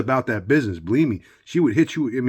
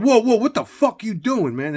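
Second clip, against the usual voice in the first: 1 retold shocked call-out; 10 semitones higher, 4 dB louder than usual. Calling out to couple.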